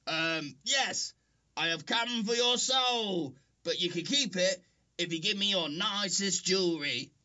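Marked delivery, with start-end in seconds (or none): 1.6-7.1 spooky Death voice. Pretend. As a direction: pretend to be Death. Pretending to be Death.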